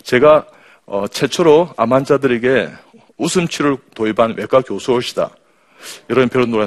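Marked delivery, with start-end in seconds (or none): none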